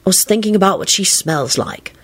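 musing, lightly dreamy tone; pensive, lingering musing. A narrator's reading. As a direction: ponder it as if lost in thought. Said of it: "Lupin replied pensively".

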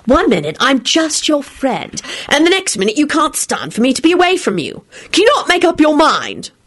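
exasperated Elizabeth. Acted.

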